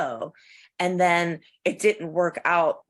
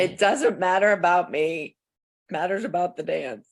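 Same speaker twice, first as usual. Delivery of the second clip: mock quote, words swapped. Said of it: "was funny".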